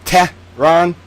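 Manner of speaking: Tehran split into "Teh... rahn"; exaggeratedly careful "Teh, rahn"; phonetic attempt. Shown as a demonstration. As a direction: sound out "Tehran" with a gap between syllables. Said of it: "Is that good enough for you?".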